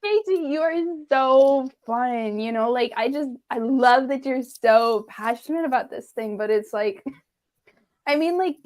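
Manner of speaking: put-on mean girl voice. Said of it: "do your mean girl voice".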